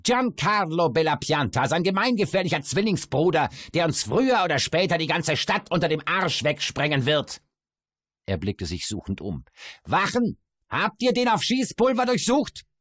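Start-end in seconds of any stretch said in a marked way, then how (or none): 0.0-7.4 high, loud heckling announcer; bawling dwarf voice. A narrator's reading. Dwarf announces the twin brother. 9.8-12.7 high, loud mock alarm; mocking dwarf voice. A narrator's reading. Dwarf calls to the guards.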